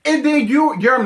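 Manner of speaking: each word jumping high and loud; mock emphatic. Mocking Andre's emphatic speech, high. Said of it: "putting emphasis after every word".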